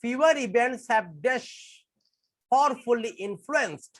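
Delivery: slow, word by word exam sentence; teacher dictating a question, slowly and deliberately; slow dictation reading. Shown as a demonstration. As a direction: read it out slowly for the students to follow. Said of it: "reads the next question slowly".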